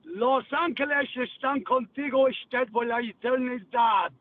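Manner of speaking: solemnly announced Spanish phrase; speaking Spanish. Shown as a demonstration. Showing off Spanish to a listener on air, speaking Spanish. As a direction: deliver a blessing in Spanish. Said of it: "I'm going to speak Spanish to you".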